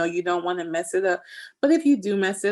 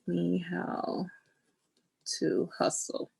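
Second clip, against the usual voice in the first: whispered while writing; 5 dB quieter, slower than usual. Real, not acted. Writing words on scrapbook page.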